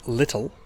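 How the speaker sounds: "little" with a very strong T in the middle; "little" with the middle T fully sounded; British T. Shown as a demonstration. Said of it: "So in British English".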